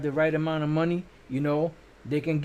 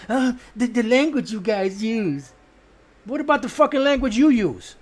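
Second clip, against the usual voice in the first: louder and higher, fed up and cursing; angry outburst; 6 semitones higher, 6 dB louder than usual. Real, not acted. Preacher rants at viewers who complain about cursing, angry and loud. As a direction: lash out at the critics.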